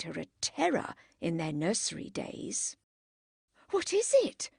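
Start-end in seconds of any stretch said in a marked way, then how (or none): 3.7-4.5 high alarmed call. Acted. Margaret calling out to her sister, alarmed. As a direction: call out across the lawn. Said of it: "she called".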